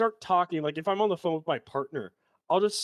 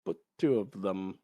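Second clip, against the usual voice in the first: imitating George Lucas; 4 dB louder than usual. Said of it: "POV George Lucas's mind".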